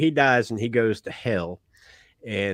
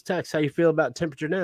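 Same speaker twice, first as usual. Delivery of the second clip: quick, higher, lightly Southern devil; Southern accent; 5 semitones higher, faster than usual. Acted. Devil checking on Tex once more, light Southern accent. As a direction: hurry the question with a touch of Southern. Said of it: "has a Southern accent".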